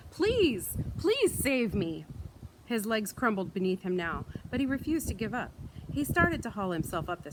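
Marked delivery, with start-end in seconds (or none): 0.1-2.0 high, loud, pleading yell, slowing at the end; crumbling creature begging Mister Hood to save it; desperate yelling. Acted. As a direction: scream up the stairs for rescue. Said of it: "still yelling for Mister Hood".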